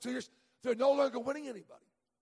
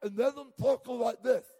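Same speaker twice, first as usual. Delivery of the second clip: numb mouth; 6 dB louder than usual. Shown as a demonstration. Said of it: "I went from talking like this to".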